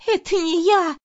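high, loud, tearful cry; sobbing denial. A narrator's reading. Maid sobbing to her furious employer, high tearful cry. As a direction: sob it out in a high panicked voice. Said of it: "рыдала она".

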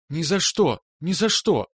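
fiery refusal; fervent. A narrator's reading. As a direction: insist passionately. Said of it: "пылко заявил Пузатик".

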